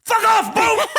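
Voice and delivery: high, loud shouted whale voice, laughing; humpback whale voice. Pretend. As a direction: yell it like an angry whale ramming a boat. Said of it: "Let me see if I can do an impression of a humpback whale".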